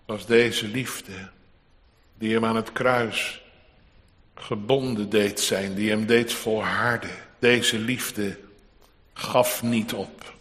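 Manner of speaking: low, soft, solemn reflection; hushed preaching. Acted. Preacher reflects on love that endured the cross, hushed. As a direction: bring the sermon down to a grave hush.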